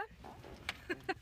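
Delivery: soft, voiceless chuckle; real laugh. Real, not acted. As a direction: let a short, quiet laugh slip out. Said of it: "I don't know why I'm laughing".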